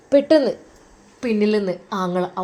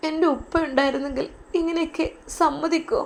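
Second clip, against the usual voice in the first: softly weeping; 4 semitones higher, 4 dB quieter than usual. Acted. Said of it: "അവൾ പൊട്ടിക്കരഞ്ഞു".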